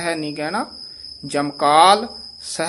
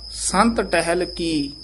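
ਸੰਤ ਟਹਿਲ ਕੀ slow, then a stop; slow, then a break after ਕੀ; pause after phrase; slower than usual. Shown as a demonstration. Teacher marks the pause before ਬੇਲਾ. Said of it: "ਇੱਥੇ ਠਮਕ ਲਾ ਦੇਣੀ ਹੈ".

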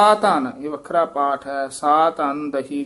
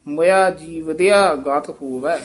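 quick ਮੋਇਆ. Shown as a demonstration. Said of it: "ਮੋਇਆ ਛੇਤੀ ਉਚਾਰਨ ਕਰਨਾ ਹੈ".

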